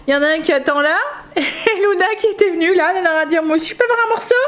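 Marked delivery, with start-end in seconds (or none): 3.5-4.4 voicing the dog.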